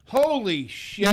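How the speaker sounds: loud, slow shocked exclamation. Real, not acted. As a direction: blurt it out in disbelief. Shocked outburst.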